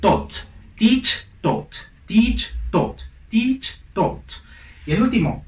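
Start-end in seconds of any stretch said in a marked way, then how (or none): 0.0-4.3 teacher drilling "teach" and "taught". Shown as a demonstration. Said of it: "el sonido es idéntico a los demás".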